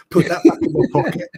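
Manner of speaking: high embarrassed laugh then squeaky retreat; sheepish laugh. Retold or imitated. Telling a friend how he pocketed the card, high and flustered. Caught out offering ration card.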